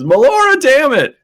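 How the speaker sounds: loud, high exasperated oath; cursing guard. Acted. Guard swearing over the fallen prisoner, acted angry shout. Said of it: "he goes".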